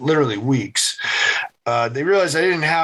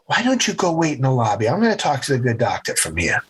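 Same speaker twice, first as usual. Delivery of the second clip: lightly imitated New England mom; faster than usual. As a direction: send the kid out, keeping composed. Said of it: "Mom sees it immediately, taps me".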